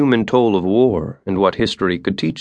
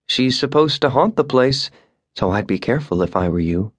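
teasing; 4 semitones higher than usual. A narrator's reading. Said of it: "she added teasingly".

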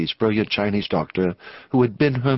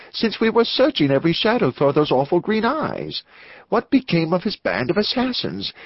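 high-pitched, urgent challenge; agitated, combative clergyman; 7 semitones higher than usual. Acted. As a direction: fire off alarmed questions, voice pitched up.

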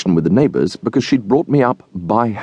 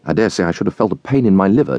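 plain reading voice

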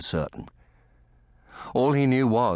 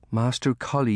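gently raised, higher voice; gentle; 6 semitones higher than usual. A narrator's reading. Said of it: "Lucy said gently".

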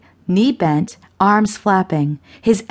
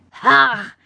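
sudden high gasp; shocked gasp; 6 semitones higher than usual. A narrator's reading. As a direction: gasp as if splashed with cold water. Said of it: "Perry gasped".

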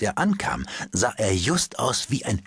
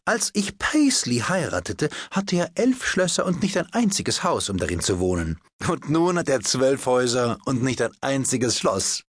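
lively hostess exclaiming; 4 semitones higher than usual. Acted. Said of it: "rief Lady Windermere".

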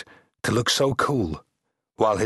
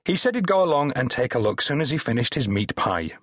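hurt tone; 4 semitones higher than usual. Acted. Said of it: "in a hurt tone".

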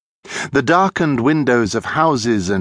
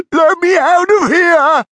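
very high, loud squeal of terror; high-pitched frantic shouting; panicked cry; 7 dB louder than usual. A narrator's reading. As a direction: shriek it, desperate to escape. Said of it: "cried Stefan".

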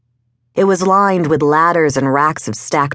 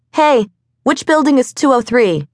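much higher-pitched call after someone; 10 semitones higher than usual. A narrator's reading. Woman to kid riding away, high-pitched calling out. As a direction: call the question after a departing rider.

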